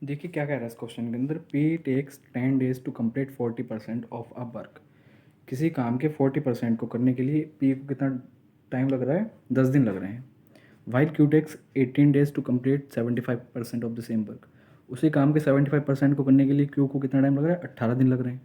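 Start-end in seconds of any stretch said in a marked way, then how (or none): 1.5-4.8 reading the problem aloud, word by word; slow question reading. Shown as a demonstration. Teacher reading the exam question to the class, slow and deliberate. Reads the new question slowly. 10.9-14.5 reading the problem aloud, word by word; slow question reading. Shown as a demonstration. Teacher reading the exam question to the class, slow and deliberate.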